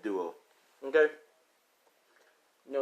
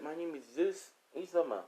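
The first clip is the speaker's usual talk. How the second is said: put-on child's voice; 8 semitones higher than usual. Child introduces self back.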